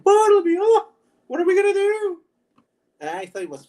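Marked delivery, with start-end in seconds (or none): 0.0-2.2 very high, loud theatrical Frenchman; flamboyant French character. Acted. Demonstrating the game character's voice, loud flamboyant falsetto. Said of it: "guy's voice was like that".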